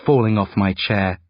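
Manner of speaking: usual speaking voice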